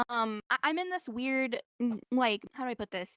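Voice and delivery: groggy hungover speech. Real, not acted. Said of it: "I'm hungover and I sound really retarded".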